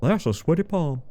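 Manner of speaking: lightly voiced Southern film lead; Southern accent. Streamer wanting to greet each enemy, light Southern accent. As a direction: mimic the lead, mildly Southern. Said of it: "I wanna be like".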